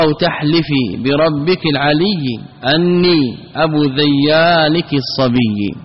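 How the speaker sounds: slow, measured poetry reading; verse recitation. Shown as a demonstration. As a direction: draw out each foot of the verse. Quoting a line of poetry.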